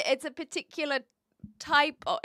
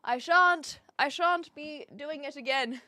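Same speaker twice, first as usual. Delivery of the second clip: higher, declaring no more, easing off; mock firm refusal; 4 semitones higher than usual. Streamer retelling a vow against more days off, mock firm refusal. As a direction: put your foot down in a mock-prim vow. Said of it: "that I was like".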